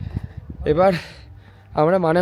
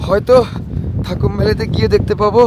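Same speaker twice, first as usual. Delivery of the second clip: shouting over wind; 2 semitones higher, 4 dB louder than usual. Real, not acted. Strong wind, cold on mountain.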